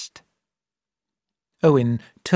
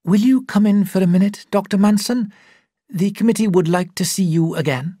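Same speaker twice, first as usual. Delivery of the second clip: raised, louder call across the room; 7 semitones higher, 4 dB louder than usual. Acted. Secretary calling the doctor back into the room, loud call. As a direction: call him back in from the doorway. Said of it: "He called out".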